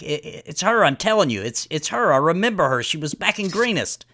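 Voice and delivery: lightly voiced insistent man from the camp; a touch of urgency, pressing to be believed; lightly acted, insistent identification; insistent accuser. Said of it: "the one from earlier is like".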